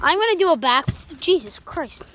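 on a trampoline. Real, not acted. Bouncing on a trampoline.

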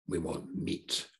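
slow, soft, drawn-out mock whine; a lightly voiced grumbling people; whiny complaint. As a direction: whine it like a spoilt crowd wanting meat. Israelites complaining in the desert.

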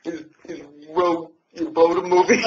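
lightly voiced old grandma; a light take on an old granny; Grandma Wood. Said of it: "That's my Grandma Wood impression".

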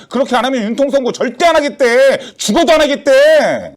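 agitated insistence. Acted. Relaying an ultimatum to a friend on the phone, agitated. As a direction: press the point with rising urgency. Heated phone quarrel over ruling.

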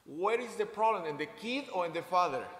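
loud, pointed question to the room. Real, not acted. Preacher challenging the congregation, loud. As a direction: throw the question at them.

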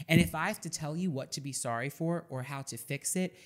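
usual speaking voice

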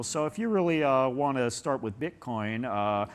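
slowed, lightly mimicked pitchman drawl; a light send-up of a guru's slow pitch; imitating Tai Lopez. Mocking a guru's slow way of talking to viewers. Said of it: "he talks like this".

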